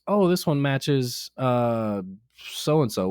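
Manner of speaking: mildly imitating a pleased child; a hint of a cheerful ten-year-old; little girl's happy tone. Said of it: "that was the exact tone she used".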